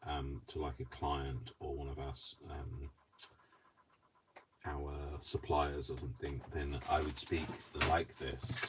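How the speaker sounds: measured, careful posh work voice; proper posh British. Shown as a demonstration. Showing how they talk to clients, proper British speech. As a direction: lightly put on your proper client-facing British accent. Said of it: "if I speak properly".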